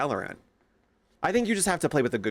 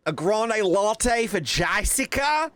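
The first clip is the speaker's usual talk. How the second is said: slow, high call across the counter; barista calling orders; 8 semitones higher, much slower than usual. Retold or imitated. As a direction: sing out the order name.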